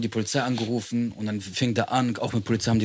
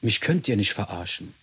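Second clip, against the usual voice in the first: creepy neighbour; 3 semitones lower, 4 dB quieter than usual. Retold or imitated. Voicing the psychotic neighbour.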